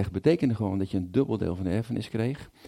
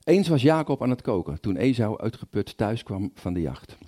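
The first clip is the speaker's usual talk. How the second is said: Bible reading. A narrator's reading. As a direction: read scripture to the congregation, acting out the speakers. Reads Genesis aloud in sermon.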